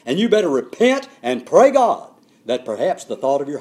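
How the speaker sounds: loud, stern apostle's rebuke; incensed rebuke. Acted. Peter rebukes Simon, loud and stern. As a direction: scold him like a furious Peter. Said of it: "The Apostle Peter is incensed".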